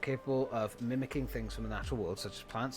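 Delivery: low-key read-out of a synopsis; reading aloud. Real, not acted. Vlogger reading an anime synopsis to viewers, low read-aloud.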